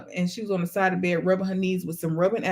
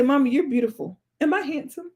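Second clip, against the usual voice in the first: put-on lightly higher child voice; compliment, then a higher hopeful question; imitating son; 5 semitones higher than usual. Son trades compliments with Mommy, lightly imitated. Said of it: "He'll say".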